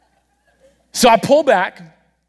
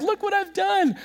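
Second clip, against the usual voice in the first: proud show and tell; 5 semitones higher than usual. Retold or imitated. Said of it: "show and tell".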